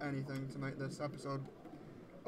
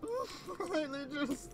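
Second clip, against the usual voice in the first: very slow, stretched, higher whine of disgust; drawn-out dread; 12 semitones higher, much slower than usual. Real, not acted. Player groaning about leeches, slow stretched whine. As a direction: drag every word out in dread.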